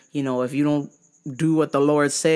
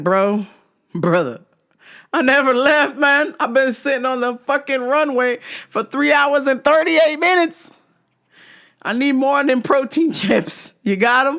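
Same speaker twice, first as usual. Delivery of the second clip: exasperated rant; 8 semitones higher than usual. Retold or imitated. Exasperated retelling to clerk.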